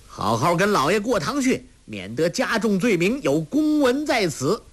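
high, pompous official call. A narrator's reading. Second officer ordering them to court, calling out high. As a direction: lord it over them from above. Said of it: "叫道".

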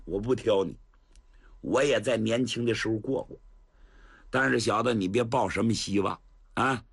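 put-on an old general brushing off the youngster; lightly voiced old general. Cheng Yaojin voiced as old man. (程咬金摆架子，声音稍低)

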